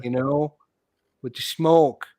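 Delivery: slow, hammed-up Boston accent. Shown as a demonstration. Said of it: "I just want to hear you say that in your Boston accent".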